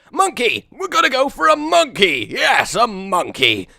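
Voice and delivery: high, loud squeal of delight; gleeful excitement. Real, not acted. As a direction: burst out, thrilled by your own idea. Sudden delight at building a monkey.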